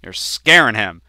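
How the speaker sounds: imitated motherly scolding, mildly cross; angry mom. Mom to dad teasing their kid, mildly angry scolding. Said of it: "she would get angry at him".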